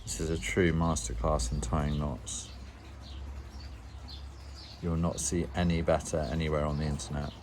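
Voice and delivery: deadpan sarcastic boast. Acted. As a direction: say it dry and sarcastic. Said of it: "I am being sarcastic".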